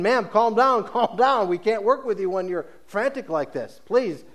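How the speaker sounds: policeman calming her. Retold or imitated. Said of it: "the policeman, uh, who's saying".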